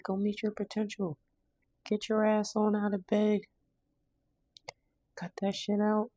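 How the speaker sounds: high, pushy voice telling them to get up; tough-love auntie, pitched high and bossy; sassy tough-love voice. Acted. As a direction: sass them out of bed in a high voice. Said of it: "I feel like I need to talk like this".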